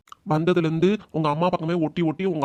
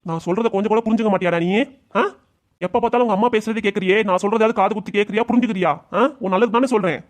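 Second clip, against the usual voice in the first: raised, higher angry scolding at his son; shouting angrily; 4 semitones higher than usual. Acted. Father yelling at his son, angry and raised. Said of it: "கத்தி பேசாதீங்க மாமா".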